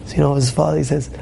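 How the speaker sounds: normal talking voice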